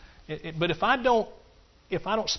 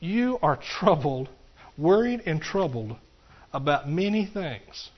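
slow, tender rebuke; Jesus gently calming Martha; gentle Jesus; slower than usual. Acted. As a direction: soothe a worried friend. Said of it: "Jesus answered and said to her".

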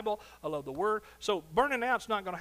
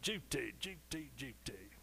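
lightly voiced Cary Grant, fading quieter each time; a hint of Cary Grant, dropping softer on each duty; Cary Grant impression; 3 semitones lower, 8 dB quieter, slower than usual. Preacher imitating Cary Grant for the church, soft and fading. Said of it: "I always think of Cary Grant".

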